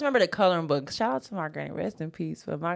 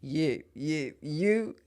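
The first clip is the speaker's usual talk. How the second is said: yappy chihuahua voice. Retold or imitated. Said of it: "They be like".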